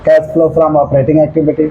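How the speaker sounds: stretched out word by word; slow dictation. Shown as a demonstration. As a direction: say it slowly for students to copy. Teacher dictating heading to students. (धीरे-धीरे बोलकर लिखवाना)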